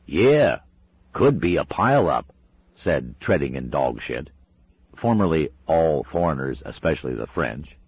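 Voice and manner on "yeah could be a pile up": biker. Acted. Second biker agrees.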